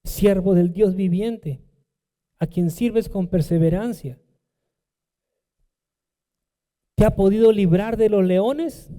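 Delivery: a mild touch of anguish, voice rising on the question; anguished call. Retold or imitated. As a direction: call down into the pit, lightly anxious. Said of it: "va a preguntar con voz angustiada". (con un leve tono angustiado)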